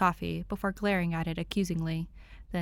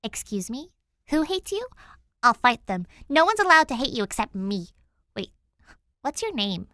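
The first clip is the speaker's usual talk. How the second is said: put-on higher girl's voice, louder and feisty; protective Danny; 5 semitones higher, 6 dB louder than usual. A narrator's reading. Danny vows to fight anyone who hates Tim, loud and feisty. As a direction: bristle with mock outrage.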